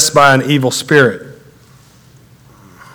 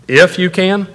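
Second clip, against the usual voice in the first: raised, questioning echo; mild sarcasm; 4 semitones higher than usual. Acted. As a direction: throw the condition back with a touch of disbelief. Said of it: "a little sarcasm".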